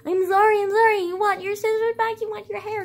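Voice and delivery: high, loud, tearful pleading, imitated; mock sobbing little-kid apology, pitched high and loud; imitating a crying kid. Kindergartner begging her teacher not to punish her, high tearful wail. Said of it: "And I was crying".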